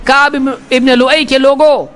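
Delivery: calling out. Retold or imitated. Abu Jahl calling his clan over, a mild imitated call. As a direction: call people over, not truly shouting. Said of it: "اس نے پکار کے کہا".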